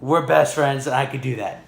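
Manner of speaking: ordinary delivery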